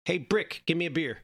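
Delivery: calling to the bartender. Retold or imitated. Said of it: "and goes".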